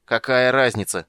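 loud, drawn-out exasperated cry; slow, exclaimed protest; yelling. A narrator's reading. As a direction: wail it impatiently. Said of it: "завопил Физбен".

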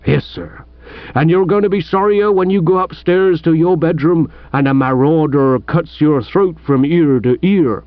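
lightly voiced aggrieved village policeman; disgruntled police sergeant. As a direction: grumble like a mildly put-out sergeant.

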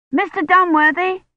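high call across a courtyard; shouting. A narrator's reading. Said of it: "Colin shouted".

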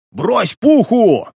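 high, slow, forceful yell; urgent shout. A narrator's reading. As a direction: drag each word out as you shout. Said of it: "прокричал Тон". (медленный громкий крик, высоко)

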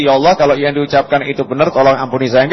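quick, hollow prayer, just going through the motions; perfunctory prayer. Shown as a demonstration. Preacher mocks a hollow prayer, rushed and insincere. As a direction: rattle it off fast like empty lip service. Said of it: "Bukan basa-basi loh ya".

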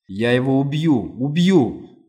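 angry roar of a father; furious threat. A narrator's reading. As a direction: swear revenge at full voice. Father enraged at the news.

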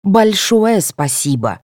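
slow sneering thanks; snide drawn-out thank you; sarcastic. A narrator's reading. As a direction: lay the sarcasm on thick. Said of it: "Соня язвительно добавила".

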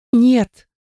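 high panicked refusal; desperate no. A narrator's reading. Heroine refuses to leave Den, panicked. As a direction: cry out no in fear.

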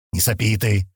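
ordinary delivery, nothing marked

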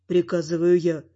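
ordinary delivery

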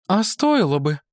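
high woman's voice, pressing the words; with emphasis. Acted. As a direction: press it on him in her high voice. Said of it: "с нажимом произнесла она". (с нажимом, высоким женским голосом)

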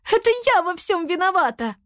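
high, anguished self-blame; girl blaming herself for losing her pet; high tearful girl voice; guilty girl. A narrator's reading.

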